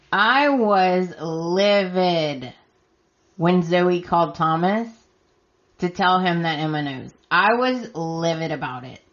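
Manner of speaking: hoarse, scratchy voice. Real, not acted. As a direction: voice going, scratchy and rough. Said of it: "It's getting really scratchy".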